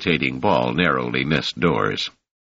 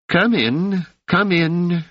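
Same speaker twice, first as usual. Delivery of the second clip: put-on high, gentle old woman's welcome; elderly hostess greeting guests, soft and high; soft, high-pitched old woman; 13 semitones higher, slower than usual. A narrator's reading. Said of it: "in a soft, high-pitched voice".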